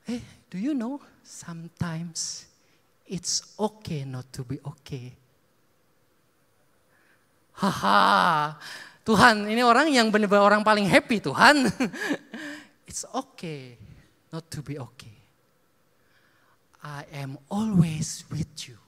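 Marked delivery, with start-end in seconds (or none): 0.1-5.2 tender voice of God. Retold or imitated. God comforting a cheerful man. 12.9-18.8 tender voice of God. Retold or imitated. God comforting a cheerful man.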